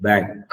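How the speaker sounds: bank ending in a crisp K; clear K in bank. Shown as a demonstration. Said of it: "The K has to be very clear".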